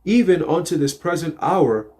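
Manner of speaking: slow, solemn verse reading; scripture reading. Acted. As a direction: read the verse slowly and deliberately.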